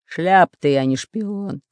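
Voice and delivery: mild grumpy jab; snappish retort. Acted. Pirate insults the spy, mildly snapping. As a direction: snap back with a touch of scorn. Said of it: "огрызнулся пират Буль-Буль".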